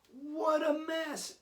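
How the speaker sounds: high, loud, slow exasperated shout; mock yell. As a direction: act out a parent shouting at the messy playroom. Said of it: "And you're yelling".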